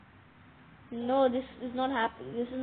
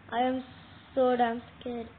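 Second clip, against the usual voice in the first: louder scared cry; 3 dB louder than usual. Real, not acted.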